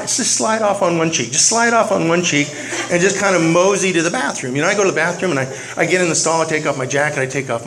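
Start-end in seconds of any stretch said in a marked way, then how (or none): 0.0-1.3 slow and drawn out. Shown as a demonstration. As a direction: stretch the words out slowly. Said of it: "you wanna just kinda slide".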